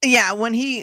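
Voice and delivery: ordinary delivery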